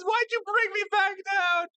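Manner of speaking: exasperated shout. Real, not acted. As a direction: yell it up in disbelief. Complaining to chat.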